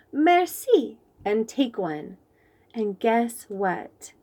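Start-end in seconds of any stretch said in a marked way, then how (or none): 0.1-1.0 fancy French thank-you. Acted. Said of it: "So I say".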